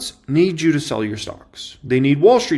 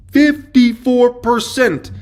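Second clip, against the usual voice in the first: drawn out slowly, higher and louder; shocked exclamation; 8 semitones higher, 5 dB louder, much slower than usual. Real, not acted. Host stunned at a put option loss, slow astonished cry. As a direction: stretch out the number in disbelief.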